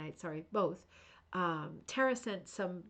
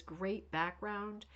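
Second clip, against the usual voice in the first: drawn-out read of a comment; slowly read; 3 dB quieter, much slower than usual. Shown as a demonstration. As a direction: stretch out great background slowly. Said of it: "Judy says".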